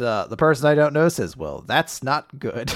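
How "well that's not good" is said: slow, mildly deadpan retelling; underplay it, slowly; understated reaction. Retold or imitated. Host retelling a character's response to dire news, understated. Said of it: "It's just such an understated reaction".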